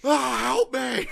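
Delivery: high, slow mock cry for help; hammy falsetto plea. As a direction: stretch it out in falsetto. Acting out the neighbours.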